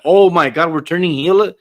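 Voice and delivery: going from dismay to pleading, pitch soaring at the end; exasperated fan outburst. Retold or imitated. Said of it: "I'm like".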